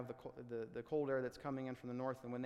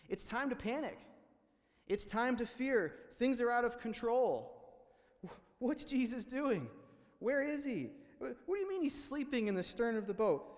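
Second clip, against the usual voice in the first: much higher and louder, frantic and alarmed; mock panic; 9 semitones higher, 6 dB louder than usual. Preacher voicing the disciples' panic at the storm, high and frantic. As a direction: act out the panic, voice climbing. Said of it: "preacher voicing the panic".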